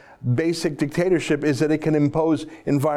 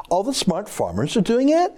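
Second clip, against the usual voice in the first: higher, mocking Kardashian affectation, slowing at the end; mock vocal fry; 6 semitones higher than usual. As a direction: parody the minister's valley-girl fry. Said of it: "Vocal fry".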